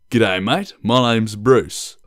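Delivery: broad Australian accent, drawn out slowly; thick Australian accent. Shown as a demonstration. Vlogger shows off a broad Australian accent, slowly. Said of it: "a really thick Australian accent".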